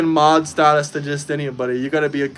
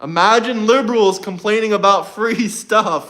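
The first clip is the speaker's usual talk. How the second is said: laughing; 6 semitones higher than usual. Real, not acted. Mocking laugh at liberals.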